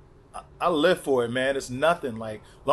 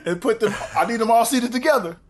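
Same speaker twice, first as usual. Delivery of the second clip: laughing; 7 semitones higher, 3 dB louder than usual. Real, not acted. Joking about seating his fans.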